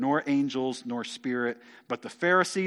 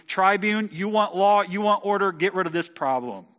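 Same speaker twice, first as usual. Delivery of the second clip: raised, louder insistent appeal; urgent demand; 5 semitones higher, 5 dB louder than usual. Acted. Council urges the tribune to act against Paul, insistent. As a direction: press the official hard, then drop back.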